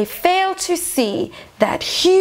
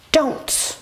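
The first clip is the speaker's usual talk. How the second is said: whispered warning. Acted. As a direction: hush it like a secret warning. Warning listeners about the snake.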